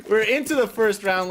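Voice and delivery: high laugh into the words. Real, not acted. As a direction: laugh through the opener. Caster laughs mid-intro.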